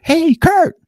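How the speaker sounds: high shouted greeting across the street; calling out. Retold or imitated. Townsperson shouting a greeting at a passing driver. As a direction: yell the name to a passing truck.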